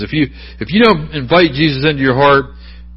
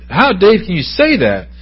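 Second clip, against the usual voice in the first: mock incredulous question; 7 semitones higher than usual. Voices doubting listener's question.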